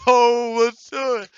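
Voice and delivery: high, loud, excited mock cheer; excited shout. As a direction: squeal it out like an overexcited kid. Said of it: "He's like".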